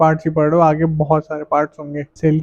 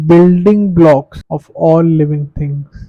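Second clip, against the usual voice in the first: slow, deliberate dictation pace; slow, even definition read; dictating slowly; 4 dB louder, much slower than usual. Shown as a demonstration. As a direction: read it out word by word for notes. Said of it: "teacher dictates definition slowly".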